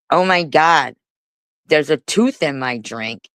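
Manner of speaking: a mildly loud put-on announcement for bystanders; mock loud exclamation. Bartender imitating a customer's joke, mock loud exclamation. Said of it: "he says things loud enough so the people".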